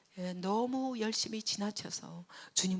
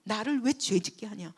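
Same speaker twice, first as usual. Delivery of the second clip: mock angry Abimelech; 5 semitones higher, 7 dB louder than usual. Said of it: "막 이러고 따졌어요".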